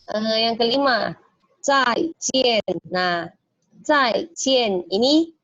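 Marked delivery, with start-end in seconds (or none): 1.6-2.8 both "zai" and "jian" falling; fourth tone demo. Shown as a demonstration. Teacher models falling tones. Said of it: "dua-duanya nada keempat". 3.9-4.8 "zai jian" slow, both falling; slow, both syllables falling; fourth tone demo. Shown as a demonstration. Teacher drills it slowly. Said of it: "dua-duanya nada keempat".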